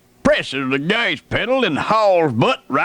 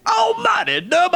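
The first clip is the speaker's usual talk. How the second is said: much higher, shouted in panic; alarmed yell; 14 semitones higher than usual. Retold or imitated. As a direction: yelp his name as the truck nearly hits you. Panicked yell at reckless driver.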